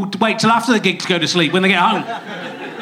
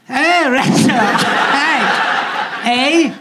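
high, hammed-up mock Canadian accent; goofy, pitched-up attempt at a Canadian accent; changed accent, meant as Canadian; 5 semitones higher, much slower than usual. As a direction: put on a silly Canadian voice. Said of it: "I've changed the accent".

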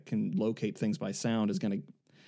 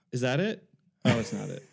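mock moviegoer commentary. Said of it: "say this to each other all the time".

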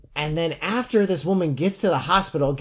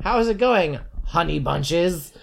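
stereotyped gay man; 4 semitones higher, slower than usual. Retold or imitated. Mocking how the author writes a gay man, high gushing voice. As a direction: ham up a cartoon gay best friend. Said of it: "writes gay men like I wrote women".

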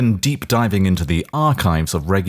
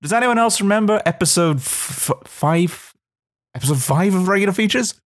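special new voice; 12 semitones higher than usual. Acted. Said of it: "special new voice you're debuting".

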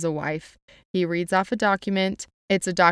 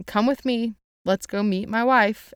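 mock hysterical; 5 semitones higher than usual. Rochester dragging Jane off to meet his wife, mock hysterical. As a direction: play Rochester lightly unhinged, pitch pushed up. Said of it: "He's, like, hysterical".

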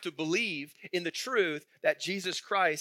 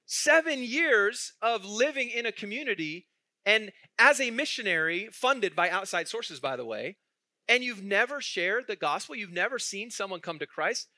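retold disbelief; 2 semitones higher than usual. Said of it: "And I'm like".

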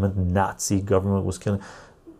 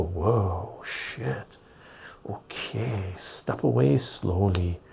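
mock muttering to self; 7 dB quieter, much slower than usual. Backing away from someone.

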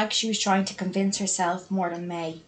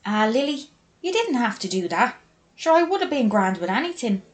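higher, touched and protesting; grateful protest; 4 semitones higher, 4 dB louder than usual. Acted. May seeing the room her sister did up, grateful. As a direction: tell her she needn't have, with feeling.

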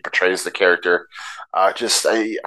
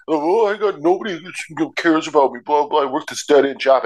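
weaselly and whiny; 5 semitones higher than usual. Retold or imitated. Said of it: "weaselly and whiny".

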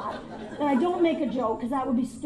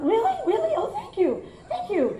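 put-on battered child; 8 semitones higher than usual. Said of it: "I'm like a battered child".

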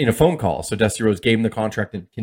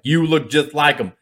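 lightly put-on booker voice, slow and higher; Dusty Rhodes; 4 semitones higher than usual. Booker insists on the resemblance, lightly imitated, drawn out.

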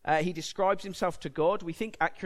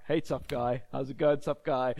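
put-on talking to a toddler; 5 semitones lower than usual. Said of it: "you go up to a little toddler".

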